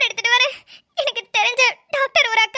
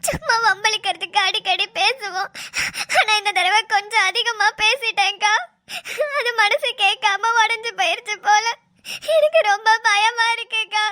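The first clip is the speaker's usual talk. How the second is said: tearful pleading. Acted. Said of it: "நீ அழுவுறது கஷ்டமா தான் இருக்குது".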